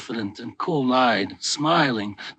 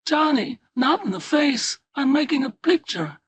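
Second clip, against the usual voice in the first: screaming; 12 semitones higher than usual. A narrator's reading. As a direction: shriek it at him as his fist draws back. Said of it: "She screamed".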